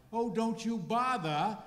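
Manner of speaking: put-on high, loud, slow old ferry captain; drawn-out, unhurried captain's voice; salty captain calmly answering the matron. Ferry captain's punchline reply.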